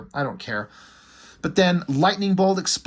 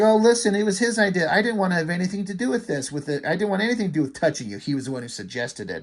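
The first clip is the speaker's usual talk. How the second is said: fast, higher-pitched babble of excuses; panicked pleading; 3 semitones higher, faster than usual. Acted. Pyro excuses himself to the woman he attacked, panicked. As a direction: rush it out like someone freaking out, trailing down at the end. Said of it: "Pyro starts freaking out".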